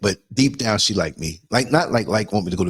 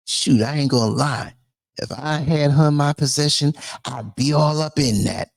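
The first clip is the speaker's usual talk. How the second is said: neighbor's heroin drawl; 2 semitones higher than usual. Retold or imitated. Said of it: "The heroin in her voice".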